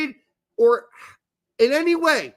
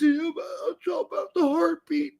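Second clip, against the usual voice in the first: mock heartfelt sobbing; 3 semitones higher than usual. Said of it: "I'm so emotional".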